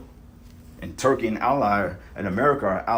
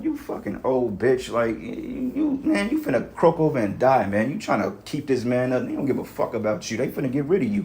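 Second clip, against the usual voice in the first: imagined angry retort; 4 semitones higher than usual. Retold or imitated. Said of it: "I'm like".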